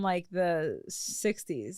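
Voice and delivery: slow, soft words through laughter; laughing. Real, not acted. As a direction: trail off laughing. Laughing at his comment.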